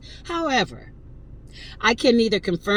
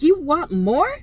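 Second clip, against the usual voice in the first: taunting; 9 semitones higher, 5 dB louder, slower than usual. Retold or imitated. Taunting the antagonizing woman.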